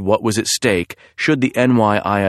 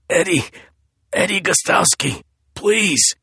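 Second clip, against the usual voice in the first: terrified pleading; 10 semitones higher than usual. Acted. Terrified victim begging.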